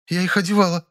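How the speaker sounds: high, frightened maid. Acted. Maid begs him not to call the police, frightened and high. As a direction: beg in a high scared voice. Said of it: "сдавленно пискнула".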